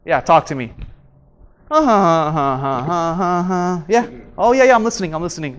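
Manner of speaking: low, disengaged uh-huhs; bored listener. Shown as a demonstration. Showing students a disinterested listener, flat and low. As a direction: act distracted while someone talks. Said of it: "I'm talking like this".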